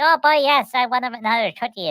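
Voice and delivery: put-on high, eager child voice; excited little girl. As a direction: beg for the cookie like a thrilled kid. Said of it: "and she's like".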